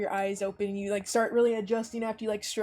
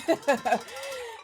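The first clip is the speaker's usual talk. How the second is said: acted hearty chuckle, pitched up; hearty laugh; 4 semitones higher than usual. Kane getting up beside his coworker, acted hearty laugh. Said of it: "he has this hearty laugh".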